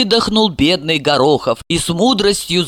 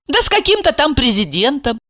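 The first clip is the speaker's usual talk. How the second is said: indifferent; 7 semitones higher than usual. Acted. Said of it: "безразлично ему сообщила".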